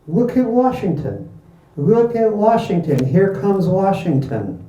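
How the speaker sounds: high-pitched spectator's call; excited calling out. A narrator's reading. Someone on the train spotting Washington, calling out. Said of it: "someone called out".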